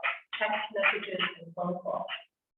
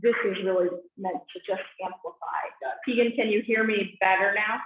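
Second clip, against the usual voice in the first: underwater; 4 dB louder than usual. Real, not acted. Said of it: "You sound like you're underwater".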